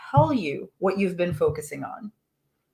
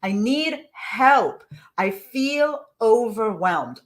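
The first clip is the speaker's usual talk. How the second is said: all-caps plea; 3 semitones higher, much slower than usual. Retold or imitated. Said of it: "in all caps now she writes".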